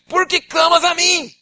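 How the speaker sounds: high loud, slow demanding question; voice of God. Acted. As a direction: boom it as God asking why. God's voice quoted.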